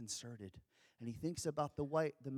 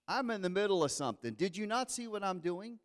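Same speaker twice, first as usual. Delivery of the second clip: fast, higher, irritated; busy husband brushing off his wife, fast and higher; 5 semitones higher, 3 dB louder, faster than usual. Acted. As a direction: snap at her to hush, quickly.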